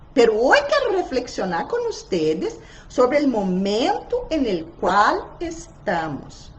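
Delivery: ordinary talk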